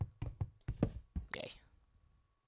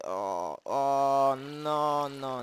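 rising panicked cries; 4 semitones higher, 7 dB louder, much slower than usual. Real, not acted. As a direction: panic as it happens. Panic at attack.

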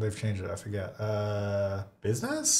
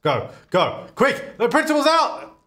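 high, excited shouts of go, go; urgent hurry-up calls; 4 semitones higher than usual. Real, not acted. Player urging her sim to class, excited high calls. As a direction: hurry the character along, laughing.

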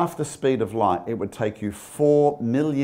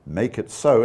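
lightly imitated British captain's accent; a brief, mock British command; 3 dB louder than usual. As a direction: give it a hint of lovely British accent. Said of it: "in that lovely British accent".

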